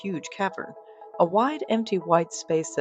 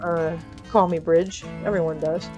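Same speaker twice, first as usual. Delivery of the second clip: lightly voiced lower-pitched deadpan man; reluctant Bridger; 3 semitones lower than usual. Bridger replies to the elf.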